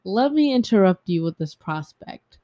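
loud pitch. Acted.

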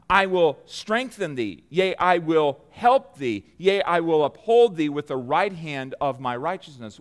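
slow, weighty reading of the verse; deliberate scripture read. Acted.

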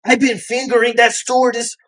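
high, hammed-up Indian accent, rising to a shout; complaining passenger in a mock Indian accent; imitating Indian accent. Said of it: "He goes".

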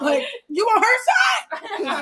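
high, drawn-out accusing question; hammed-up disbelief at a partner; mock indignation. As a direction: play up the betrayal, slowly. Acted challenge to disloyal partner.

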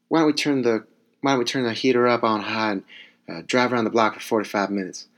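quoting a TV character in a bad put-on accent; terrible accent. Comic quoting a half-remembered sitcom line, terrible accent. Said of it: "that was a terrible accent".

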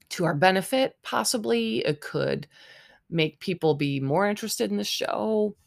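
talking between sips; words around a drink; while sipping a drink. Real, not acted. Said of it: "sorry, I'm taking a drink".

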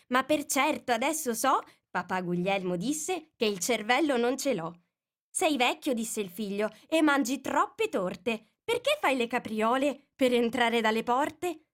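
sing-song verse; poem recital. Acted. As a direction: recite it like a nursery rhyme.

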